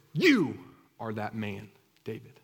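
jab a finger at his chest; pointed accusation. Acted. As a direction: prophet confronting the king with his guilt. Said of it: "that poke in the chest".

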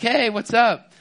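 high, loud cheery hey, what's up; breezy loud greeting, caught mid-game; casual greeting. Retold or imitated. Turning round to a girl at the party, cheery loud greeting. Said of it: "I was like".

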